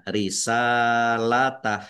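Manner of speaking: slow risalatah, long middle a, short ending; final h with sukun. Shown as a demonstration. Teacher models the stop, short ending with h in risalatah. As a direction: end risalatah on an unvowelled h. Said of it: "haknya dibaca sukun".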